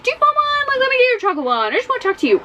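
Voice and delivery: high, sweet-talking pharmacist voice; sly pharmacist. Retold or imitated. Pharmacist luring Eddie into the back, high and coaxing. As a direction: coax the boy like a creepy salesman. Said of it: "he's like".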